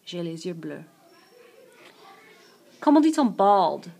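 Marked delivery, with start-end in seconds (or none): 0.1-0.8 "bleus" ending on the vowel, no S sound; silent S. Shown as a demonstration. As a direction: leave the final S of "bleus" silent. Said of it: "but we don't pronounce it".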